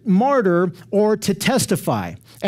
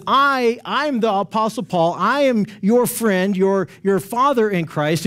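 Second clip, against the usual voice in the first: raised, punched "I" at the start; emphatic I. Retold or imitated. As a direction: stress "I" each time, as Paul insisting. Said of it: "he's saying I twice".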